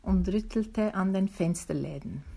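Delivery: lively storybook reading voice; story narration. A narrator's reading. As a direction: read it like a bedtime tale for a listener. Reads a children's story aloud.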